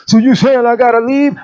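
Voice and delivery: retold challenge. Young man challenging pastor retold.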